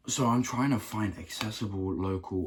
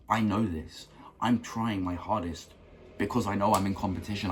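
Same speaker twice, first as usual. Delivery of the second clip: earnest, driven, slightly heated; a bit fired up. Real, not acted. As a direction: get a little worked up, pressing on quickly towards the end. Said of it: "getting a bit fired up".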